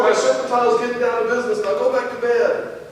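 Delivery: fast, clipped-off repeat to end the talk; dad repeats the title to a nosy son, fast; impatient repeat. Retold or imitated. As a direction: rattle it off to get him back to bed. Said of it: "Yes, I'm sure".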